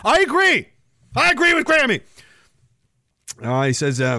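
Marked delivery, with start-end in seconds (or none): 0.0-2.0 high, emphatic agreement; excited, high-pitched endorsement. Real, not acted. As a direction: declare it with pitch way up. Enthusiastically sides with grandmother after laughing.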